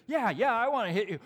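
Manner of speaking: loud, high, heated threat; hammed-up angry yell, pitch jumping; mad. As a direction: imitate an angry young man squaring up. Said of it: "He's still mad".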